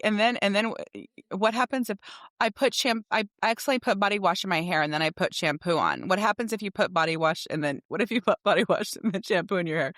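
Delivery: lightly voiced curious little boy; a hint of a kid firing questions; child's voice. Mother retelling her son's bedtime questions. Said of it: "he'll be like".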